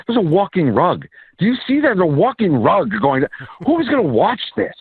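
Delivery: mock English accent. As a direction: scoff in a high put-on English accent. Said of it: "they're doing it in the English accents".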